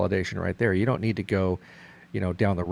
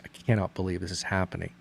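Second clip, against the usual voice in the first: retold despair; 5 dB quieter than usual. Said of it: "pounding on the steering wheel".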